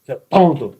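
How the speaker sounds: high, loud, insulting scold; harsh scolding mother. Retold or imitated. Mother insulting her child near the socket, harsh scold. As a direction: snap at the child like an impatient mother. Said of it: "Não pode falar assim com a criança".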